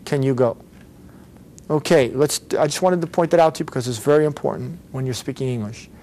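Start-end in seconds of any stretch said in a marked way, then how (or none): 0.1-0.6 "Can" squeezed down to "kun"; reduced, unstressed "Can"; vowel cut out. Shown as a demonstration. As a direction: drop the vowel between C and N in "Can". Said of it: "cutting out the vowel in between".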